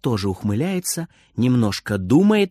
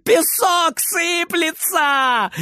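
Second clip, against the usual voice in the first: much higher, slow jeering shout; gleeful mocking shout; 12 semitones higher, much slower than usual. A narrator's reading. Boy jumps for joy jeering at granny, very high. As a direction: jeer at granny in delight. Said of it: "кричит Фридер".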